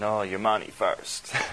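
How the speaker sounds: put-on horrible sneezy Spanish accent. Retelling what a robber's friend said to him, in a horrible sneezy Spanish accent. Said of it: "in this horrible, sneezy Spanish accent".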